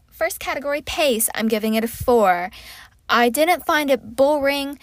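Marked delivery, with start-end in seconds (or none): 3.1-4.8 slipping into an English accent; unintended posh British lilt. Real, not acted. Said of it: "Why am I speaking in an English accent?".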